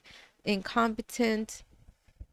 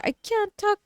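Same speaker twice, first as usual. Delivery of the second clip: imitating upset daughter; 11 semitones higher than usual. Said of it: "she's like".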